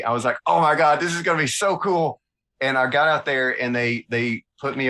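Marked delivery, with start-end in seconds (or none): 0.5-2.2 higher-pitched burst of giddy anticipation; gushing, thrilled retelling; retold excitement. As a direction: re-enact being all excited about the trip. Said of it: "I was all excited".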